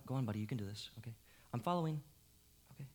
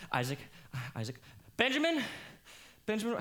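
calling out; 5 semitones higher than usual. Acted. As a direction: shout for the boys. Calling the children in panic.

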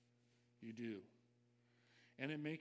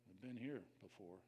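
cynical mutter; 3 semitones lower than usual. Retold or imitated. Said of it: "you might mutter it to yourself".

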